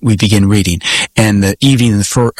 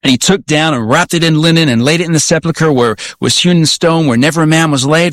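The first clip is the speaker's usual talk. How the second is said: a firm, confident reading of scripture, only a little raised; strong loud reading; 4 semitones higher than usual. Retold or imitated. Student reading verses aloud to the pastor, strong and bold. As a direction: read it out boldly and sure of yourself. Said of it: "strong voice, loud voice".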